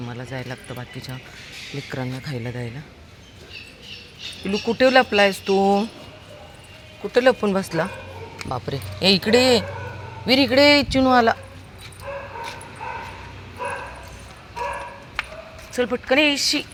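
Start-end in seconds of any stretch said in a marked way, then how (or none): 4.4-7.9 higher, teasing hide-and-seek call; playful pet voice. Real, not acted. Owner looking for her hiding dog, playful high pet voice. 9.0-16.6 calling out. Real, not acted. Owner calling her dog to come meet Chinu, high calling voice.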